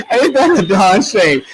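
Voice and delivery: amused, drawn-out self-correction; laughing correction. Real, not acted. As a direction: repeat it through laughter, leaning on the cleaned-up word. Laughingly corrects the swear word.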